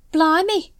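high, amazed "Blimey"; impressed exclamation. A narrator's reading. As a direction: gasp it out, truly impressed. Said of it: "said Nobby, impressed".

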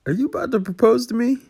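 high-pitched, loud astonished question; shocked disbelief. Acted. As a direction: gasp it out in total surprise. Sudden proposal surprise.

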